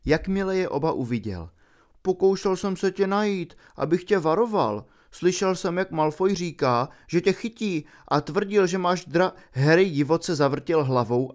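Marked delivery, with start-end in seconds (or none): 2.0-9.3 put-on higher, hurried boyish voice; a frightened boy blurting out a warning; Neville blurting. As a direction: Neville rushing to warn Harry.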